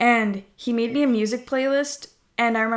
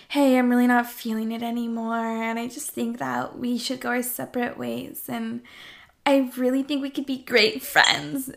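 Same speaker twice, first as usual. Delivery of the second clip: soothing ASMR-like voice. Retold or imitated. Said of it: "telling me about my voice".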